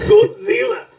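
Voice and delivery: high, slow mock Asian accent on Godzilla; hammed-up Asian accent yell. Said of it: "shitty Asian accent".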